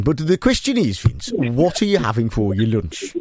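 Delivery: put-on Brummie interviewer voice; Birmingham accent. Host interviews lunching caller, mock Birmingham accent. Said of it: "I'll do Birmingham".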